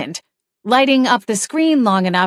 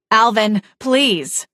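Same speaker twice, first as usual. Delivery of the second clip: hollered plea; 3 semitones higher, slower than usual. Acted. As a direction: call out to him as sirens approach. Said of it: "Daisy hollered".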